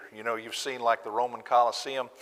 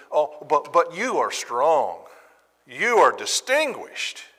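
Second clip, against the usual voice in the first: sarcastic; 4 semitones higher, 4 dB louder, slower than usual. Acted. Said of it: "some really digging sarcasm".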